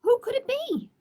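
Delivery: high, hushed whisper; mysterious whisper. Acted. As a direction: whisper it like a secret at the door. Acts out who is knocking.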